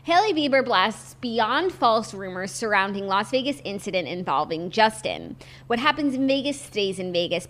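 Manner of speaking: measured entertainment news delivery; news read. Acted. Co-host reads celebrity gossip to the show, news read.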